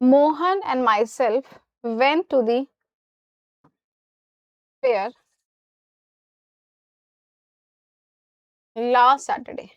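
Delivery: very slow, words drawn out; slow dictation. Shown as a demonstration. Teacher reads the sentence slowly for students to judge. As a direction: read the wrong sentence slowly. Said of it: "wrong sentence read out".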